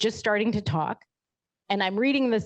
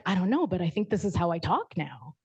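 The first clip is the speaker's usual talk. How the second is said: laughing. Retold or imitated. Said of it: "and I'm like".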